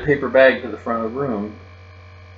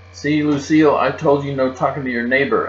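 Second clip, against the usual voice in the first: loud, higher, scolding holler; 4 semitones higher, 4 dB louder than usual. Acted. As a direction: yell it at her, bossy and triumphant. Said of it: "I hollered".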